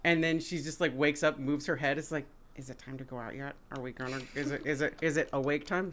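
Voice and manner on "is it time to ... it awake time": soft, quiet little dog voice. Retold or imitated. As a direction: hush it like a sleepy dog asking to go out. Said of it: "that's a really good dog voice".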